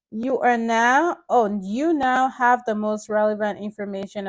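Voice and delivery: emphatic, measured book reading; read-aloud narration. Acted. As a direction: read the chapter out clearly to listeners. Reads book chapter aloud to viewers.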